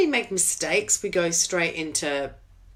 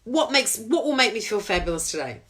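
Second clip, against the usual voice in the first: upbeat. Acted. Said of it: "Turn it into".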